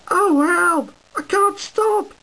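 high, loud frightened yelp; panicked cry for help. Acted. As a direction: scream out in panic. Runaway engine calling for help.

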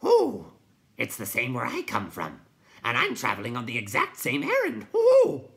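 high, loud hooting sighs; hooting owl creature. A narrator's reading. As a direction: hoot and wail like a night owl. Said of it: "the Night Hob sighed".

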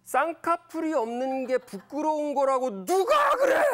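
upset outburst. Retold or imitated. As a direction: blurt it out as a choked-up father. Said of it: "울컥하고 올라온 말이".

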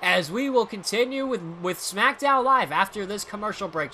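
play-by-play announcer voice; wrestling commentator. Acted. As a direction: call the match like TV. Play-by-play of own wrestling game.

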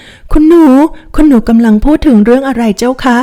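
a frightened maid's high, slowed answer; shaky and evasive, avoiding her mistress's eyes; trembling maid. Acted. Maid Taohua dodging her mistress's question, mildly frightened. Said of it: "เริ่มตัวสั่นเลยค่ะ".

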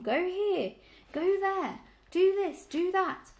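high, loud grumbling list of orders; hoarse, complaining. A narrator's reading. Old ewe mocking the dogs' orders, hoarse and complaining. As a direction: pound out each order in an old ewe's grumble. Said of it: "a hoarse, complaining voice".

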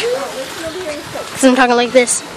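slowed-down, goofy delivery; silly way of talking. Shown as a demonstration. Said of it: "no idea why I'm talking like this".

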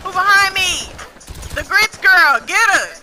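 excited shouting. Real, not acted. Chased, demanding grits.

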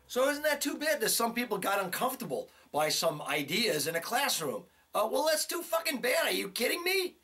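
high-pitched indignant rant; angry rant. Real, not acted. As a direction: rail at them, incredulous and furious. Ranting at the college's critics.

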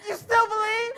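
a broken, weeping question; tearful question. Acted. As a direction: ask through tears. Tearful question after the cries.

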